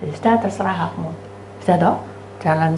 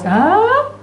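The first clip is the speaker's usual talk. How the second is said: long, high rising "hah"; exaggerated open-mouthed surprise; mock gaping; 14 semitones higher, 4 dB louder than usual. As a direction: gawp aloud in comic amazement. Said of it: "Baru ngawas-ngawas".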